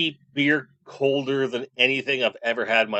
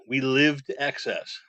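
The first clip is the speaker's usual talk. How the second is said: slowed. Shown as a demonstration.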